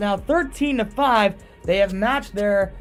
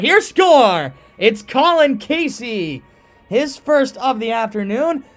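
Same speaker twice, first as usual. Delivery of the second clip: loud, high goal call; goal call yell; 7 semitones higher, 8 dB louder, slower than usual. Real, not acted. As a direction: shout the goal with excitement. Goal call by play-by-play announcer.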